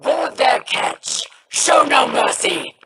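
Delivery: high, commanding shout to the crew; rally them to board; battle cry. Acted. Captain orders boarding attack.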